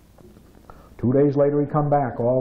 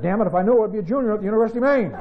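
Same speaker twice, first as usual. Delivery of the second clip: higher, fast, breaking into a laugh; laughing punchline; 7 semitones higher, much faster than usual. Retold or imitated. Punchline of the joke.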